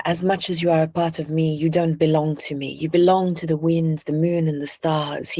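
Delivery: a light, anglicized French accent, gently voiced; softened French accent. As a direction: speak the line with just a touch of French accent. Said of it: "it's an anglicized French accent".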